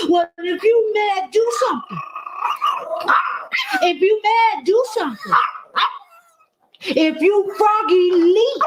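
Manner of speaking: high teasing dare to the dog; mock challenge, pitched high; playful dare. Real, not acted. Owner daring dog to react.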